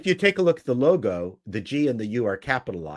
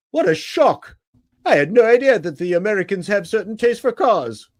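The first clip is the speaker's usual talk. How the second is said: sarcastic; 8 semitones higher, 6 dB louder than usual. Real, not acted. Sarcastic mock surprise.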